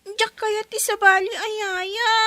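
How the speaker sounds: loud tearful refusal; crying protest. Acted. Child refuses a new nanny, crying loudly. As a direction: sob out the refusal.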